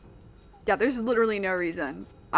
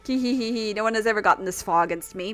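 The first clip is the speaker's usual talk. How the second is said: put-on a light New York accent on the lines. Streamer reading game dialogue, light New York accent. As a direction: keep the New York twang going lightly. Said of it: "I can't get out of the New York accent".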